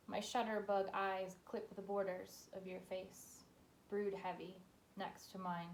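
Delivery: measured, level-pitched poem recital; poetry reading. Acted. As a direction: read it line by line, letting each phrase settle with pauses. Reads second poem aloud.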